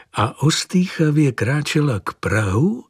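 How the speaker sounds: ordinary delivery, nothing marked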